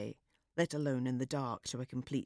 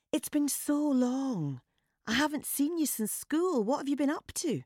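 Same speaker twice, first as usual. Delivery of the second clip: loud fake reunion; 10 semitones higher, 3 dB louder than usual. A narrator's reading. Woman performing a reunion for the hidden man, loud and high. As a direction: put on a show of old friends for the lurker. Woman putting on show for lurker.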